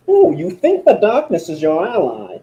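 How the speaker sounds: failed Bane voice. Pretend. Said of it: "that's not good Bane".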